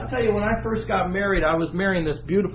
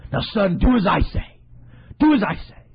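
firm, louder mother's command; insistent mother; 6 dB louder than usual. Retold or imitated. Mother Rebecca commands her son Jacob, firmly louder. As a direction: press the order home. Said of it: "she comes to the son".

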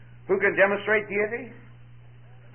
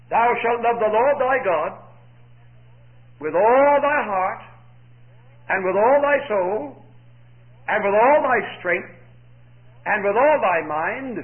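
solemn scripture reading; 3 dB louder than usual. Acted.

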